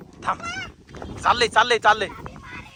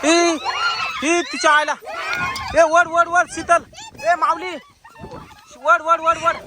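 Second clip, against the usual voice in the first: higher, raised voice; urgent calling out; 5 semitones higher, slower than usual. Acted. Man urges his family to pull the victim free, urgent shout.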